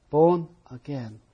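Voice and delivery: Born said slowly, falling firmly; stress on born again. Shown as a demonstration. Teacher repeating the key phrase slowly. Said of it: "emphasis on".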